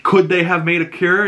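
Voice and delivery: high-pitched pressing question; acted interrogation. Ellie questions Joel about the cure, pressing. Retold tearful confrontation of Joel.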